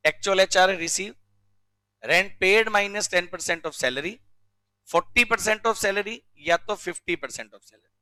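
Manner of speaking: slow, evenly spaced recitation of the rule; slow rote recital. Shown as a demonstration. Teacher recites HRA rule for memorising, slow and even. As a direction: say it slowly, word for word, to be memorised. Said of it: "ऐसा का ऐसे सुनाना है".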